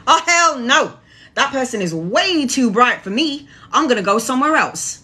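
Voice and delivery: a dark spirit shying from too much light; scared-off entity. Pretend. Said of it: "a negative entity that's walking past you is gonna go".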